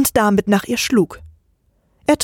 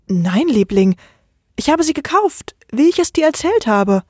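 higher, pleading wife denying it; frightened pleading; 4 semitones higher than usual. Acted. The wife backs away, pleading in fear. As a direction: plead nervously, lifting in fear.

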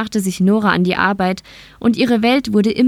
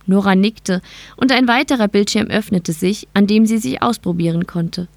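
ordinary delivery, nothing marked

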